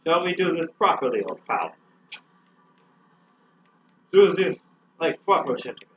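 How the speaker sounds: mock proper British gentleman; old-fashioned British. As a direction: play along as an old-fashioned British chum. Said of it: "I guess you're old-fashioned British".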